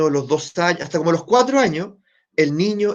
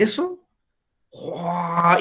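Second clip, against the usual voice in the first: surprised; 4 dB quieter, much slower than usual. Retold or imitated. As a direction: mimic the client's disbelief. Client's astonished reaction retold.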